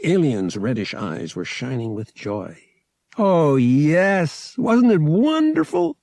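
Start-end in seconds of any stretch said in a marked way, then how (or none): 3.2-6.0 high, loud rapturous gush; enraptured alien. Acted. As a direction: burst out in blissful joy. Enraptured alien after the devotion.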